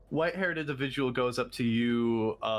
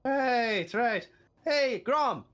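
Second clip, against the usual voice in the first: gruff dwarf; 11 semitones higher, 3 dB louder, much slower than usual. Acted. GM voices dwarf NPC.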